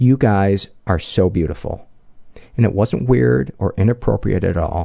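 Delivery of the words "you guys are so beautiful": put-on voice full of awe. Quoting one of the guys speaking to the girls on the deck, retelling an awe-struck remark. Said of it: "in this awe-struck voice".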